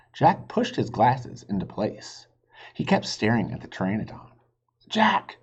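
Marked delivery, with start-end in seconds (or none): 4.9-5.4 high sharp call of his name. Acted. Sister calls from the treehouse, calling out. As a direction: call him from far away. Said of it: "Annie called".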